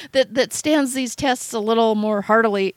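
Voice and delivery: lightly voiced God hemming and passing her over with a laugh; God doubting. God looks down at the speaker and hesitates, lightly mock-doubtful. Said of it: "I could imagine what he thinks of when he looks down at me and, and goes".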